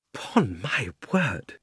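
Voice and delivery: put-on very slow, hushed old uncle; slow, shaken self-talk; muttering to himself. A narrator's reading. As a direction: talk to yourself, drawing out each word. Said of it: "he said to himself".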